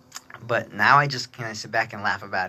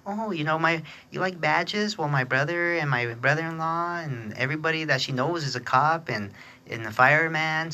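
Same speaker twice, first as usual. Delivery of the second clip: high, sing-song mimicry of a bragging stranger; mocking the show-off lady; 6 semitones higher than usual. Narrator mimics bragging lady to the kids, high sing-song mockery. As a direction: put on a prissy one-upper voice, lightly mocking. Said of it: "And she's like".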